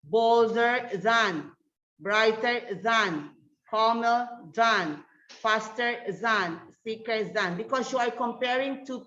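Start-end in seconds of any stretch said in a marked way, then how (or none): 0.0-1.5 slow teaching read. Shown as a demonstration. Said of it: "you can notice here in the comparative adjectives". 2.0-7.6 slow teaching read. Shown as a demonstration. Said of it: "we have this word".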